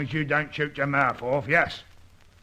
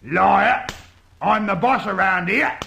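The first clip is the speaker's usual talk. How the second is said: angry shout; 3 semitones higher, 4 dB louder, slower than usual. Acted. Gang boss shouting down prisoner.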